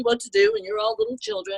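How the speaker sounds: high, quick mocking voice of superior Brits; mock condescension. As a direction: imitate someone talking down to little children.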